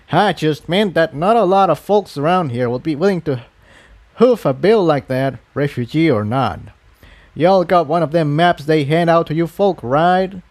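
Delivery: put-on folksy old pony giving friendly advice; old earth pony. Old pony pointing a refugee to food, lightly voiced.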